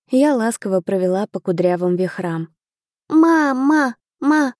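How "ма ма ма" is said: put-on higher, louder toddler babble; a toddler calling his mother; happy babbling. A narrator's reading. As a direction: babble mama like a happy baby. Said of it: "счастливо залепетал мальчик".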